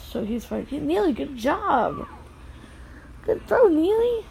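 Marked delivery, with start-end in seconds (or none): 3.2-4.2 excited praise. Real, not acted. Praising son's snowball throw.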